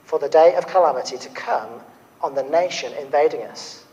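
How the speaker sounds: measured, solemn scripture reading; Bible reading. Acted. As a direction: read the prophet's words with weight. Reads Habakkuk chapter aloud.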